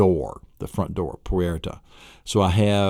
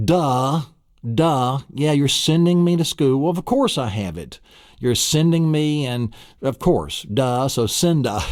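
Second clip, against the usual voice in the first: sassy little brother; 6 semitones higher than usual. Pretend. Little boy answering his big brother, sassy and a bit higher. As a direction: roll your eyes, duh.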